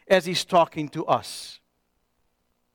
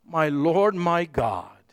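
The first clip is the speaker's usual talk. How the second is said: awed whisper; 4 semitones lower, slower than usual. Acted. Thomas worships Jesus in awe.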